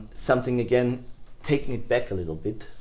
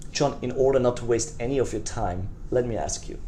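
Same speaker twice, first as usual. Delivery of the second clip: gentle, sincere and soft; really mean it as you say it; felt caring tone; 3 dB quieter than usual. Shown as a demonstration. Salesman sincerely sparing prospect John's time, gently. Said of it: "really feel it".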